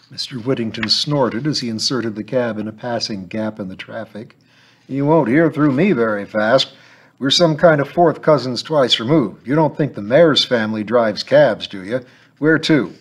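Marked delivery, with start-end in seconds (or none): 4.9-12.9 chatty Cockney cabbie, louder; a lightly voiced gruff driver chatting. Cab driver voice.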